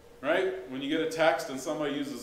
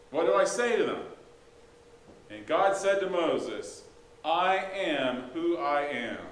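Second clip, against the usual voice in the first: scripture reading. Acted. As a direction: read it out with weight.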